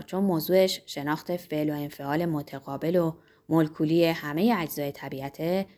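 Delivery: lightly voiced pompous pharmacist. Pharmacist explaining himself to the innkeeper, lightly pompous. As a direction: play the pharmacist, mildly self-important and low.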